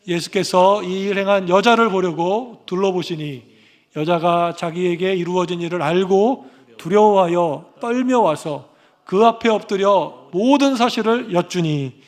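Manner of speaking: slow, measured Bible reading; scripture reading. Acted. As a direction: read each phrase out slowly and solemnly. Reads scripture aloud slowly.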